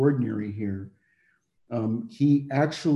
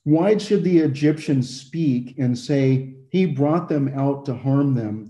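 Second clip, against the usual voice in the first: scripture reading. Acted. Preacher reading the verse aloud to the congregation, solemn. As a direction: read the verse with solemn weight. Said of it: "and it reads".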